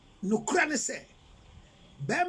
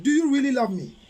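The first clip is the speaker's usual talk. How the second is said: loud mock question; 3 semitones higher, 6 dB louder than usual.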